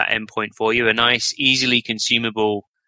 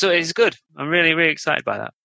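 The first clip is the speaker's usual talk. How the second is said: higher, quick and keen; excited; 6 semitones higher than usual. Real, not acted. Developer telling hosts about coming product changes, excited. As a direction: let real excitement lift the pitch. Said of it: "You sound very excited about it".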